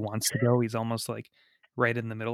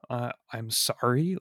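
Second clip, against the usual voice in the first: sarcastic. Retold or imitated. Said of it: "he says it with, like, just, like, dripping with, like, sarcasm".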